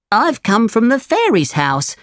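high-pitched little cricket voice; Jiminy Cricket, bearing news. Acted. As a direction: pass on news as a small cricket.

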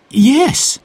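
put-on high, eager boy's voice; child voice. A narrator's reading. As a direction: voice Jack as a young boy. Child Jack voice.

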